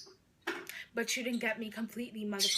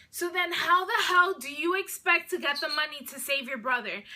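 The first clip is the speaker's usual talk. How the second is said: mock angry kidnapper, a bit louder; angry demand; 3 semitones higher, 5 dB louder than usual. Kidnapper demanding ransom from the sibling, mildly angry.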